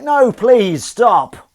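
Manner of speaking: high, loud mock begging; pleading. Owners begging the scratching kitten, mock-desperate plea. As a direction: beg the cat for mercy, hammed-up. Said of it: "we're like".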